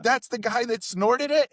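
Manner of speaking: high, loud, slow mock astonishment; imitated amazed question; incredulous friend. Friend astonished at meeting the guy.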